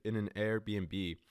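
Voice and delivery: slow, deliberate wording; slow and careful. Real, not acted. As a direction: slowly say the awkward word. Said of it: "why is that so weird to say?".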